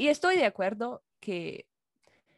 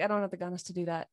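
spanglish; 3 semitones lower, 5 dB quieter, faster than usual. Retold or imitated. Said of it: "And I'll just say".

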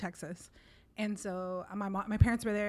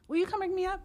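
much higher polite request; asking politely; 11 semitones higher, faster than usual. Retold or imitated. Asking the cashier to ring her up, high and polite. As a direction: ask sweetly in a raised voice. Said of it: "told her in Spanish".

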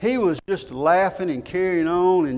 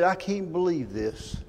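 slightly softened, retold disbelief; understated quiet quote; 5 dB quieter than usual. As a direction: retell it quietly, a touch stunned. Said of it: "he's real quiet".

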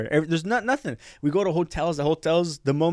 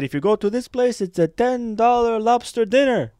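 a higher, slowed salesman pitch from the airline rep; tour rep pitch; 9 semitones higher, 3 dB louder than usual. Retold or imitated. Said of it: "And he said".

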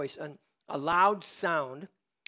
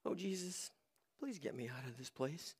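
hushed, timid mock prayer, far softer; demure prayer; 4 semitones lower, 15 dB quieter than usual. Preacher mimicking a prayer Jonah didn't pray, demure and hushed. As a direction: pray meekly, barely above a whisper. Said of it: "he didn't pray demurely like".

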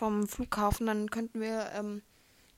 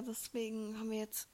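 hushed whisper; 9 dB quieter than usual. Real, not acted. Sudden whisper in chat.

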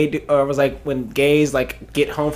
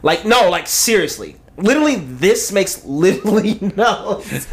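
put-on Valley girl accent. Friend reads the literally lines, Valley girl accent. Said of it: "like, a white Valley girl accent".

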